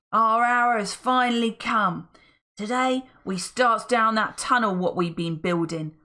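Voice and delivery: loud, gloating rabble-rouser; villain's speech. Acted. Mister Gum revealing his tunnel plan to goblins, gloating.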